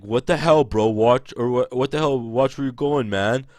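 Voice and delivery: loud, irritated shout at the stranger; angry yell. Retold or imitated. Man hit in the face by a door yells back angrily. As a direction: snap at him like you just got smacked.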